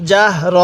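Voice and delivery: জাহর said with a clean final র, no added vowel; correct pronunciation. Shown as a demonstration. Teacher correcting a common mistake, crisp demo. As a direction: end জাহর crisply, not জাহরা. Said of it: "এরকমভাবে পড়ব".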